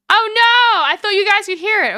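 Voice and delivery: high, loud dismay; oh no, what a blunder; real surprise. Real, not acted. Streamer realizes audio muted.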